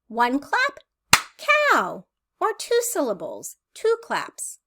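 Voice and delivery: slow, sing-song preschool teacher delivery; playful questions with clear pauses; teaching young children. Shown as a demonstration. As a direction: lead a clapping game, word by word. Demonstrates a syllable game for children.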